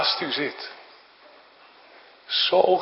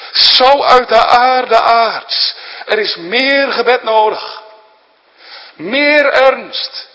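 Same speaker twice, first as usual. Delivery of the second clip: raised, accusing legalist voice; judaizers' voices; 5 semitones higher, 5 dB louder than usual. Retold or imitated. Preacher voices the judaizers demanding works, rising accusing tone. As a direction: nag the sinner with demands, pressing harder. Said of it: "Dat zijn de stemmen van de judaïsten".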